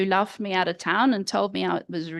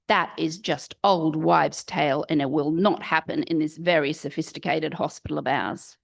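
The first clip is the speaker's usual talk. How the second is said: lower-pitched, imitated disdain; mock dismissive; 4 semitones lower than usual. Hospital midwives reject warm packs, mock dismissive. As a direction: put the newcomer down, imitating pompous colleagues.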